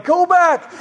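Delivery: high-pitched mock crowd yell; imitated yelling. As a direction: yell it like parents at a game. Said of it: "half the people are yelling".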